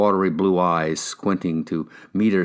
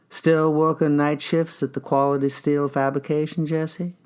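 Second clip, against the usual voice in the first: higher, probing detective; 8 semitones higher than usual. Acted. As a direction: question him like a cop. Detective voice, far and high.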